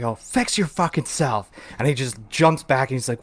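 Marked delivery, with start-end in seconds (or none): 0.0-1.5 retold telling-off. Retold telling-off of careless driver.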